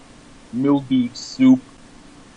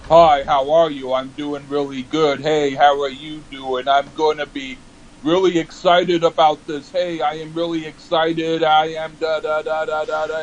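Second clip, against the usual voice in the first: level, droning cheerful words; monotone; 3 semitones higher than usual. Retold or imitated. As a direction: drone it all on one note. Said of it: "but I sound monotone".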